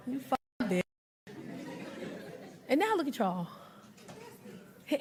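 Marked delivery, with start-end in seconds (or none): 0.1-0.8 soft hissed insult under the breath; a mom's quiet fury at her daughter; muttered insult. Retold or imitated. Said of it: "we just be like".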